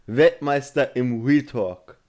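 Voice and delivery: slow champion announcement; ring announcer. Pretend. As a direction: hype the undisputed champ.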